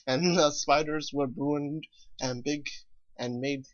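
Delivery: usual speaking voice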